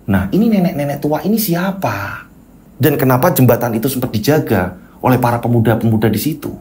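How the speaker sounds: dramatic cliffhanger questioning; suspenseful narration. A narrator's reading. Storyteller leaves listeners hanging before part two, suspenseful questioning. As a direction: tease the mystery question by question.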